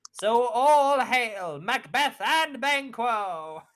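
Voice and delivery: a witch laughing through her hail; gleeful witch hail. Acted. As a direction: savour it like a gloating witch.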